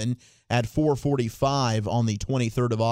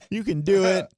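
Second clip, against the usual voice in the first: very high cracking pep-talk voice; squeaky high pep talk; Andy Dalton voice; 7 semitones higher than usual. Retold or imitated. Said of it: "it's almost like Andy Dalton".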